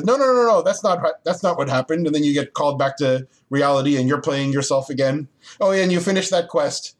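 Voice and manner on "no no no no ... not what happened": high-pitched mock protest from a lightly voiced orc; objecting orc. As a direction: butt in to contradict, as a lightly played orc. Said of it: "the orc next to you says".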